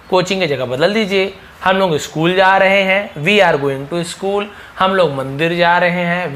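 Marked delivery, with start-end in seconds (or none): 3.1-4.5 each word stretched out slowly; slow, clear teacher demo; slow model reading. Shown as a demonstration. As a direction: drag it out for the class to copy. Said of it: "teacher models sentence slowly".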